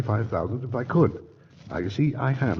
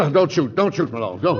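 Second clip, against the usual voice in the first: frightened plea not to shoot; pleading; 7 semitones higher, 5 dB louder than usual. Acted. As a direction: beg for your life, panicked. Gangster begging not to be shot.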